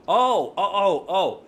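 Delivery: high, loud, swooping "oh"s; mock dawning realisation; sudden understanding. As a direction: imitate a stranger who finally gets it. American finally understands the greeting.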